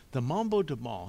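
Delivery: reading aloud. A narrator's reading. Boy reading to the adults from book, declaiming. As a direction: announce it like a book title. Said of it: "he read out loud".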